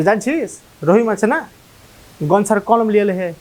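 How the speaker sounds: Malda's Kaliachak dialect, casual schoolboy tone. Shown as a demonstration. Student in class tells his friend Rahim took Ganesh's pen, in Kaliachak dialect. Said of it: "ঠিক এরকমভাবে বলবে".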